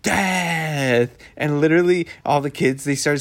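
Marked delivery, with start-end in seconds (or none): 0.0-1.2 lightly dramatic imitation of a storyteller. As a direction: build suspense for little listeners. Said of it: "she's telling the story".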